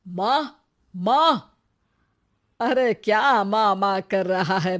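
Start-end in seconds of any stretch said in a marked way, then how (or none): 0.1-1.6 calling out. Acted. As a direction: shout माँ! across the house. Son calling out to mother.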